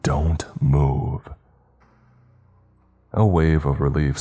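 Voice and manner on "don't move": urgent unvoiced whisper. A narrator's reading. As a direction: breathe it, barely audible. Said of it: "I heard Brock whisper".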